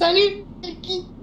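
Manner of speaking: fake falsetto voice. Introducing the voice a guest will use all episode, demonstrating it in falsetto. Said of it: "avec une voix de fausset comme ça".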